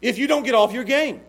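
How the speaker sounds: put-on father warning gaming kids; mock stern dad. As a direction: thunder it like a dad laying down the law. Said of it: "start saying these actual words".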